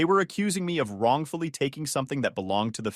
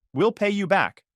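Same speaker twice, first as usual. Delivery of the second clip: high pleading promise; desperate; 8 semitones higher, 4 dB louder than usual. A narrator's reading. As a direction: beg desperately. Sister pleading in quarrel.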